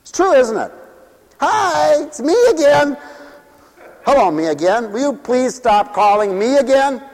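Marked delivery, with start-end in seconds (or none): 1.4-3.0 a lightly voiced bright "it's me again" on the phone; chirpy caller. Clingy friend rings up yet again, chirpy caller. 4.0-7.0 annoyed friend. Acted. Friend tells the clingy caller to stop, weary annoyance.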